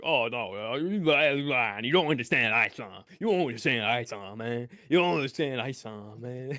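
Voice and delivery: lightly voiced mock rant; mocking impression. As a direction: mimic him dismissively. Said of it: "And it's like".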